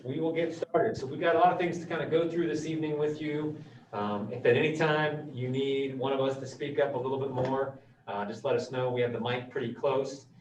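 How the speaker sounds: muffled by a face mask; through a face mask. Real, not acted. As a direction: speak from behind a mask. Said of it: "when you're speaking through a mask".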